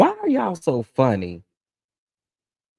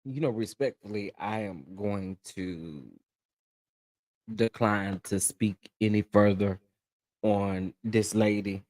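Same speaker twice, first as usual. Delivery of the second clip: 1 hushed restraint; 3 semitones lower, 7 dB quieter than usual. Real, not acted. Declines to comment, subdued.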